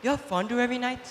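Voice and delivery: quick, soft confiding stranger; scheming stranger. Acted. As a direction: whisper doubts to the cat. Stranger stirs up Cat.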